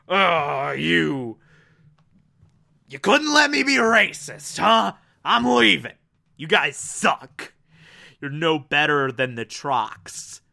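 a lightly hammed-up huff that trails off; mock fuming. Valior lightly mocked, storming off from the Titans, fuming. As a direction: imitate a sulky villain storming out. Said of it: "goes away just fuming".

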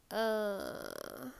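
mid-yawn; yawning tiredly. Real, not acted. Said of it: "You see why I'm yawning?".

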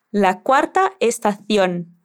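Castilian "estación" with th, estaθjon, slowly; Spanish from Spain accent, c in "estación" as th. Shown as a demonstration. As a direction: acento castellano, "estación" con zeta. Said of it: "Con el acento de Luis, decimos estación".

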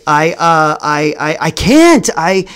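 mock flustered stutter with jumpy pitch; shy boy admitting a crush, stammering; nervous stammer. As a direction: trip over every word. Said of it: "fumbling my words".

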